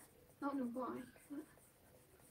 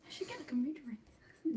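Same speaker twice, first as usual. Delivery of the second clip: whispered aside; much faster than usual. Real, not acted.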